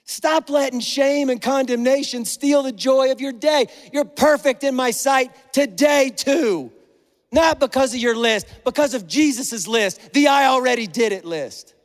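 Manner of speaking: impassioned, insistent fatherly declaration; God. Acted. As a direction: preach it as an urgent reassurance to a child. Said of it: "I think God's going".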